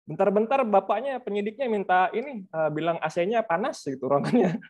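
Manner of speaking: mild mock grumbling, easing back down; retold venting. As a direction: imitate someone confiding a petty grievance. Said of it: "dicurhatin sama sebagian kawan-kawan kan".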